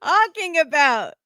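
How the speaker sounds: high, exasperated mock disbelief; incredulous retort. Imitating him answering her claim to independence, incredulous. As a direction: pitch it up as if utterly baffled. Acted baffled retort in quarrel.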